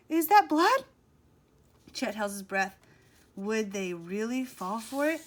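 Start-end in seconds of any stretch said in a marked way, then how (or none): 0.1-0.9 high, loud horrified gasp of a question. A narrator's reading. Sid seeing blood on the dock, horrified. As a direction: recoil at the sight of blood. Boy sees the fake blood.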